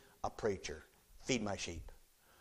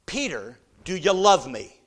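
1 the Lord asking; 6 semitones higher, 12 dB louder than usual. Acted. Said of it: "what it says in the Greek".

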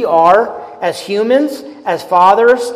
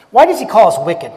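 asked fast, a touch louder; emphatic question; 4 dB louder, faster than usual. Shown as a demonstration. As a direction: fire the question out quickly. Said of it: "repeats the question".

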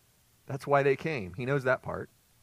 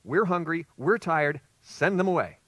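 louder, fed-up grumble of tired disciples; whiny complaint; 3 semitones higher, 6 dB louder than usual. Retold or imitated. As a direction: complain like worn-out, hungry men. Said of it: "What's their attitude?".

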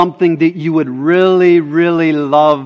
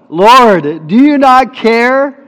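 high, loud, slow exasperated demand; 6 semitones higher, 7 dB louder, slower than usual. Retold or imitated. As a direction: hurl the question at him. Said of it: "It's loud".

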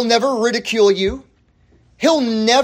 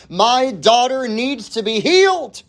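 raised-pitch plea for help; pleading; 4 semitones higher than usual. Acted. Mother begging Jesus for her daughter, pleading. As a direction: plead it with a drawn-up, urgent lift.

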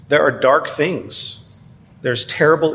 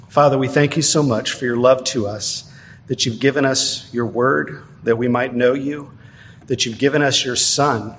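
prayer. Acted. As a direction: pray it humbly for the congregation. Pastor leads congregation in prayer.

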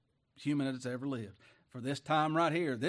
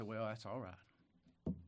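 meek reply; 4 semitones lower, 8 dB quieter, much slower than usual. Retold or imitated. Meek reply to cursing family.

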